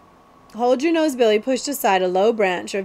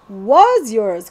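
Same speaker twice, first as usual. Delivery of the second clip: louder, firm correction; correcting; 7 dB louder than usual. Acted. Billy corrects the prince about the crown, firm. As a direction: set him straight flatly. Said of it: "corrected Hold Your Nose Billy".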